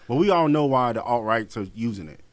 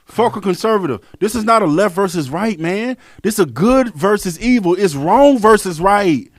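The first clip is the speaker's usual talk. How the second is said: shouting rant; 6 semitones higher, 8 dB louder than usual. Real, not acted. Ranting to his co-host about good versus evil, shouting. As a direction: preach it with full fury.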